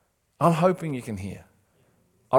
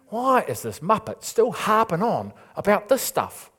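exasperated, higher-pitched griping; mock angry; 9 semitones higher, 3 dB louder than usual. Preacher voicing an irritated listener who keeps hearing this, mock angry. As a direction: act out a fed-up listener, louder and higher. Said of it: "you start getting angry".

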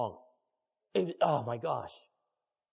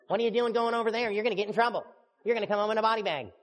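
mocking friends; 6 semitones higher, 4 dB louder, faster than usual. Mocking worried Christian friends.

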